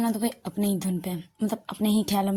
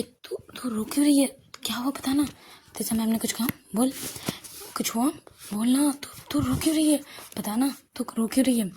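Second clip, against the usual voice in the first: higher-pitched, mildly pressing questions; concerned questioning; 4 semitones higher than usual. Acted. Shruti asking her crying friend what happened, concerned pressing. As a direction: gently badger a friend for an answer.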